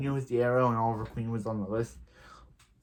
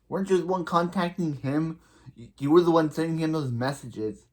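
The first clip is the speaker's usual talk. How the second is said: higher pitched, disbelieving callout; indignant callout; 4 semitones higher than usual. Real, not acted. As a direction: call her out like a fed-up fan. Fan calling out Iris indignantly.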